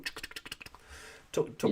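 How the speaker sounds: soft "tuk tuk" gun noise; mouthed machine-gun clicks; imitated machine-gun fire. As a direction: tick out quiet rounds like a Lewis gun. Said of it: "we stand there and go".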